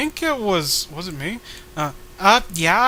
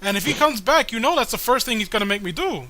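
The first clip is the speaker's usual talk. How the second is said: higher begging voice; pleading character; 4 semitones higher, faster than usual. Acted. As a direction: beg with a wheedling whine.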